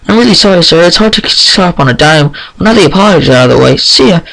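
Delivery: high quick apology; chirpy filly. Acted. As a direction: rattle it off and fly.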